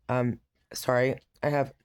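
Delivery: talking with a hair in the mouth; words round a stray hair; dog hair in mouth. Real, not acted. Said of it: "dog hair in my mouth".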